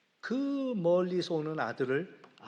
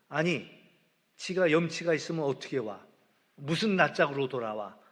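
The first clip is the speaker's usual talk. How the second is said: retold anger; 3 dB louder than usual. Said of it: "막 화가 나는데".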